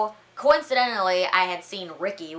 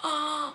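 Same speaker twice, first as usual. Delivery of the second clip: sharp retold gasp; sudden acted intake of breath; shocked gasp; 9 semitones higher than usual. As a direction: gasp in horrified realisation. Realising she scolded wrong man.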